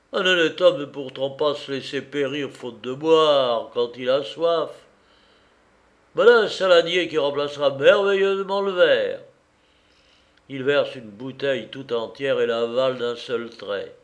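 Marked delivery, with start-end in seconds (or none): 0.1-9.2 tipsy reveller. Acted.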